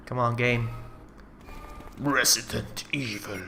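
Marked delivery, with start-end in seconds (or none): 2.0-3.4 announcer voice. Retold or imitated. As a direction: intone the title slowly. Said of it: "reminds me of that voice".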